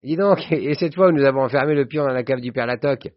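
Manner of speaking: high-pitched, gleeful reminiscing; jovial old schoolmate. Acted. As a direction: relive a school prank with relish. (vieux camarade hilare, voix haut perchée)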